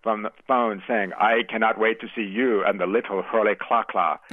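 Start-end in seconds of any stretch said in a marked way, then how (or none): 1.2-4.2 lightly imitating a bellowing elder statesman; Nelson Mandela's bellowing. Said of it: "I could hear his bellowing voice".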